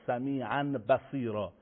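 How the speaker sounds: سمیعاً بصیرا with the n turned to m; correct iqlab. Shown as a demonstration. (سمیعاً بصیرا با اقلاب به میم)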